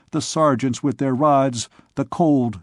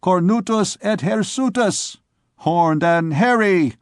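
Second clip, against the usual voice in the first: jeering; 5 semitones higher than usual. A narrator's reading. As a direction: taunt him. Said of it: "another went on".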